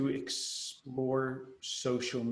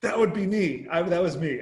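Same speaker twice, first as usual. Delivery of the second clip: mock British accent; 5 semitones higher, 7 dB louder than usual. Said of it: "talk like this too".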